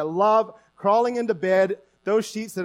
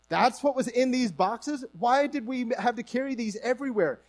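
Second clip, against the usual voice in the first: higher-pitched imitation of baffled daughters; mock incredulous; 5 semitones higher than usual. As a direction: play mock disbelief on finding junk. Imagined daughters react to the boxes.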